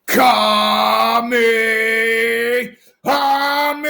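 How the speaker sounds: loud anime attack yell; hammed-up power-up shout; Kamehameha shout. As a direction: bellow it like a Dragon Ball attack. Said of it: "failed Kamehameha wave".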